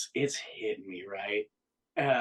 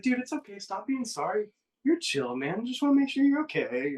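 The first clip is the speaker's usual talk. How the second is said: retold friend's kind reassurance, pitched well up; imitating chill reassurance; 12 semitones higher, 3 dB louder than usual. Friend tells him to stop being sorry, imitated reassurance. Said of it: "super nice, super, super chill".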